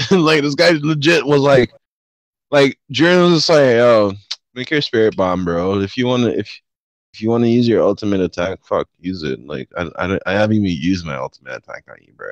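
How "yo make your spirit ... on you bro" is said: low menacing villain. Retold or imitated. Jiren voiced in retelling.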